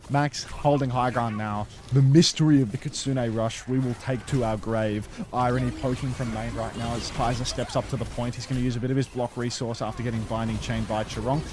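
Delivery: live play-by-play. Acted. Casts the match.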